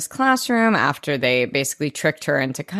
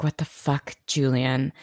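seething; 3 semitones lower, 4 dB quieter than usual. Retold or imitated. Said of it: "I loved the way she said that".

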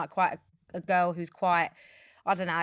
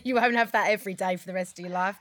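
laughing. Real, not acted. Repeats it laughing.

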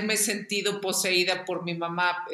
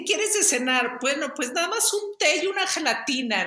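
mocking grandma; 6 semitones higher than usual. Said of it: "hacía burla de que mi mamá".

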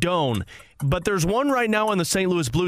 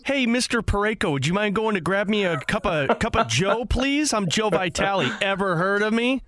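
a hint of a clueless player, higher; mock cocky rookie; 4 semitones higher than usual. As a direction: ask for coffee then brag about yourself. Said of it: "have Joe Vitale walk up to him".

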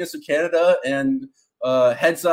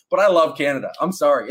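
put-on horrible Canadian accent. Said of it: "going back into my horrible Canadian accent again".

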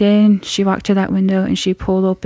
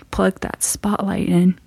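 whisper; 6 dB quieter than usual. Retold or imitated. Mom's whispered plan.

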